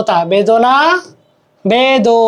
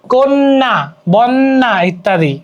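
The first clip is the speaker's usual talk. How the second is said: slow demo; much slower than usual. Shown as a demonstration. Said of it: "অ এর উচ্চারণ প্রায়শ ওকারের মতো হয়".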